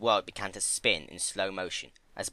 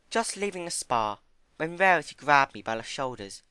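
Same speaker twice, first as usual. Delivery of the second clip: high, gentle pony voice; high timid pony; 7 semitones higher, 4 dB louder than usual. Acted. Fluttershy voiced.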